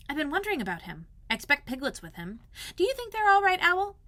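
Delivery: put-on high boyish voice, anxious and rising; a small boy fretting over his friends; worried boy. Christopher Robin asking Owl about Pooh, high and worried.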